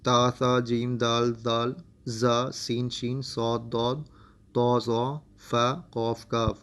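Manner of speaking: each letter named slowly and clearly; recited letter names. Shown as a demonstration. Teacher listing the ikhfa letters to the student. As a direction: list the fifteen letters one by one. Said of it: "اس میں جو پندرہ letters ہیں".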